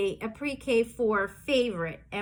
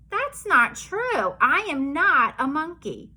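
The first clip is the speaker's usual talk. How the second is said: mock protest; 2 semitones higher than usual. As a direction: act shocked at your own words. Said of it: "making me say these crazy things".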